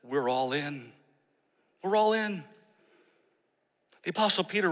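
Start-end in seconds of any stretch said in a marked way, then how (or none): 1.8-2.4 higher, ringing declaration; all in, lifted and bold; rallying cry. Shown as a demonstration. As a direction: proclaim it like a rally call. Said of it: "a mindset that says".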